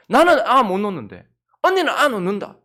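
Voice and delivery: loud jealous whine from a sister; loud, stung complaint about her sister; envious complaint. Acted. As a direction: Rachel loudly envying her sister. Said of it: "막 시기하여서".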